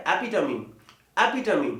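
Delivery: एपिटमी as e-PI-tuh-mee, four syllables; correct pronunciation. Shown as a demonstration. Teacher correcting students, एपिटमी ending in "tuh-mee". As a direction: sound the final "mee" in एपिटमी. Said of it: "क्या होता है?".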